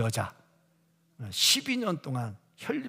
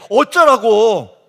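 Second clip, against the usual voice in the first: drawn-out exasperated cry, much louder; exasperated shout; 5 semitones higher, 14 dB louder, much slower than usual. Real, not acted. Preacher fed up with deaconesses who won't pray, exasperated slow shout. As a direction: throw up your hands and shout it out slowly.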